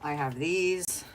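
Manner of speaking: slow drawn-out. Pretend. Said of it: "repeated line, said differently".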